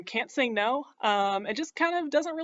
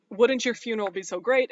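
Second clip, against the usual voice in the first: louder mock cheer; 2 semitones higher, 6 dB louder than usual. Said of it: "he goes to Judd and is just like".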